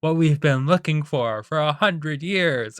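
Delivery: half-hearted pirate captain in awe. Retold or imitated. Captain marvels at the found treasure, half-hearted pirate voice. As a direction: lightly voice an amazed captain, drawing out the end. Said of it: "I can't do a pirate voice".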